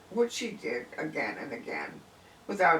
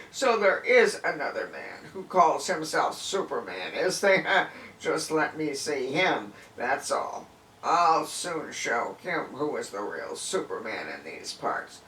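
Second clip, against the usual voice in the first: angry boast; 4 dB louder than usual. Acted. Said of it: "anger welled up in him".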